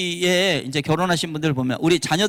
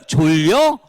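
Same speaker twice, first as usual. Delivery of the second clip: caring echo; 2 semitones lower, 5 dB louder, much slower than usual. Shown as a demonstration. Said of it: "이렇게 해주시고".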